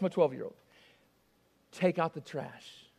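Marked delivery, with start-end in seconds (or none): 1.7-2.9 low, slow, stern fatherly order; measured no-nonsense parent. Acted. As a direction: give it as a quiet, firm command. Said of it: "that sounded kinda stern".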